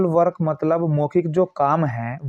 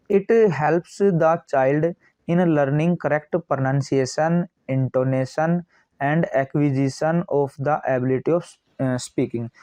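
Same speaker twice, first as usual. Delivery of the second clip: slow, word-by-word dictation reading; steady, spaced reading of a textbook line; much slower than usual. Acted. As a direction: read it out like dictation to a class. Reads the English text slowly.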